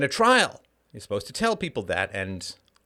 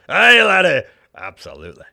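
put-on Scottish accent; 6 semitones higher, 14 dB louder than usual. Host answers a request for the show in Scottish, hammed-up Scottish accent. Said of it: "in that Scottish accent".

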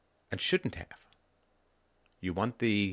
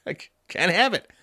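laughing; 10 semitones higher, 4 dB louder than usual. Real, not acted. Mocking the wannabe's failure.

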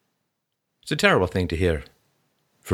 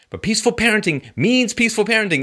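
means hit with a falling tune; stress on means; 12 semitones higher than usual. Real, not acted. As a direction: lean on the word means. Stressing the definition.

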